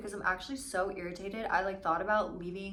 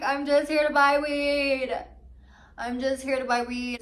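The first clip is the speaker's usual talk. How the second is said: exasperated; 6 semitones higher, 9 dB louder than usual. Retold or imitated. Retelling how she told the budtender she only came for weed, exasperated. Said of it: "it's just like".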